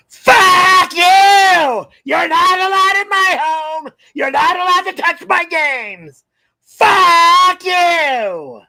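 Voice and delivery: furious low-pitched yelling rant; low register yell. Acted. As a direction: scream it out from the chest. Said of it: "the lazy low register yell that you constantly do".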